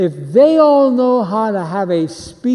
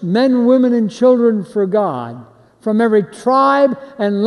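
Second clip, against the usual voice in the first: proclaimed praise; 2 semitones higher than usual. Shown as a demonstration. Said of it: "they are saying it like this".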